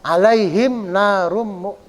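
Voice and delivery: "Alaihim" unstretched, running on into "narum"; slow recitation with the "ai" of "Alaihim" kept short; short vowel mid-phrase. Shown as a demonstration. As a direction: recite "Alaihim narum mu-" without holding "lai", breaking off. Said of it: "eh, nggak boleh".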